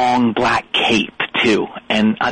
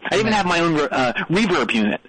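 talking through a reverb unit; 5 dB quieter than usual. Real, not acted. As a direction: voice drenched in echo. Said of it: "Well, I can hear that".

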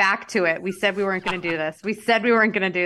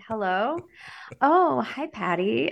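sweet phone voice; 4 semitones higher, slower than usual. Retold or imitated. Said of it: "change their voices on the phone".

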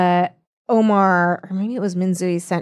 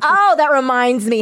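ordinary talk, nothing marked

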